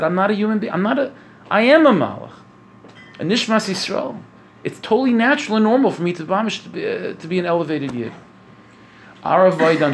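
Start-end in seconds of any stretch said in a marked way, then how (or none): 0.0-8.1 elated realization. Retold or imitated. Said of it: "Yankel said to himself".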